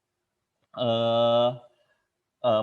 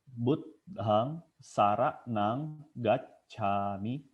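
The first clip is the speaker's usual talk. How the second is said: measured Pali chant; slow Pali recitation; much slower than usual. Acted. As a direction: intone it like a prayer.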